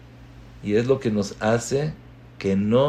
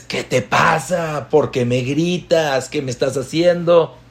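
mock offended protest; annoyed complaint; 3 semitones higher than usual. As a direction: confront in exasperation. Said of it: "Ahí es cuando dices".

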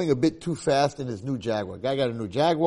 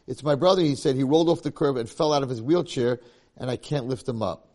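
tearful; 3 semitones higher, 4 dB louder than usual. Acted. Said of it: "With tears ripping down his face".

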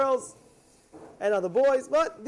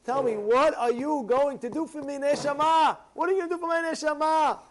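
higher, pressing father repeating his question; insistent father; 5 semitones higher than usual. Acted. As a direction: demand the answer, rising in pitch. Father presses son about afterlife.

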